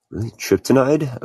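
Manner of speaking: rising high in disbelief; questioning the odd name, surprised. Real, not acted.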